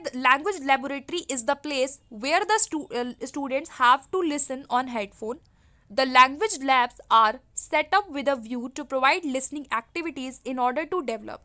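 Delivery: reads the exam question out slowly and evenly; dictating the English question word by word; slow question reading. Shown as a demonstration. Teacher reading a test question aloud to students, slow and deliberate.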